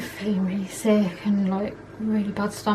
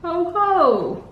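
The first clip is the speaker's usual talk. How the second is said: higher, hammed-up character "Aha! Ho, ho!"; gruffalo line; 7 semitones higher, much slower than usual. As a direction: play the storybook monster with a hint of glee. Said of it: "You say".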